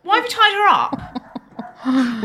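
laughing. Real, not acted. Laughing, shocked question.

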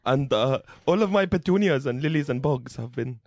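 a lightly put-on low accented dad voice; accented father. Father reports his stolen flowers to the officer, lightly accented and pleading.

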